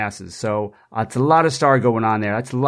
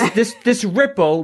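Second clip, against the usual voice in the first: laughing; 7 semitones higher than usual. Real, not acted. Amused at the word ripple.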